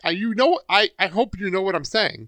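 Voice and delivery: over-the-top mock condescension, laughing toward the end; put-on condescending voice, rising into laughter. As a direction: imitate someone over-explaining, hamming it up. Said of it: "It's very condescending".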